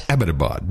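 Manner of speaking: Abbottabad as "AB-uh-tuh-bahd"; correct pronunciation. Shown as a demonstration. Host correcting a woman at a party, pronounced correctly. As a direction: Abbottabad with first-syllable stress, falling away. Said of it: "That's the correct pronunciation".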